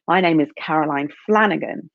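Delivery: "Flanagan" stressed, then a firm falling finish; chosen emphasis. Shown as a demonstration. Her favourite way to introduce herself, firm. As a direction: say it the way that feels best, landing "Flanagan". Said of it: "I love saying my name with that emphasis".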